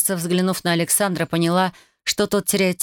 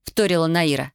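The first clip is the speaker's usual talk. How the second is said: plain reading voice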